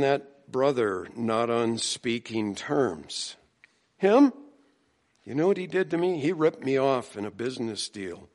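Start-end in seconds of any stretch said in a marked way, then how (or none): 4.0-8.3 indignant. Retold or imitated. Imitating a resentful church member.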